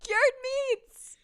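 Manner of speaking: high, loud and gleeful; excited shout. Real, not acted. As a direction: blurt it out in triumph.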